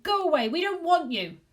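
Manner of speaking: high, loud frightened shout. A narrator's reading. Husband yelling down the phone, high and loud. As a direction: drive the ghost off with a yell. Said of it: "he shouted at it".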